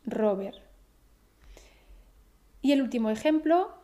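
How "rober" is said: Robert as RO-ber, Spanish R, no final t; falling RO-ber for Robert, t dropped; Spanish pronunciation. Shown as a demonstration. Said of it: "eliminar el sonido de la T final".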